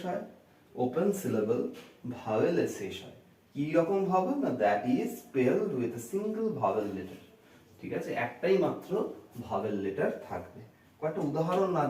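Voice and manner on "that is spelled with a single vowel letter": slow, measured repetition; teacher dictating a definition; slow dictation. Shown as a demonstration. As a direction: repeat the rule slowly for note-taking. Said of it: "teacher repeating definition slowly".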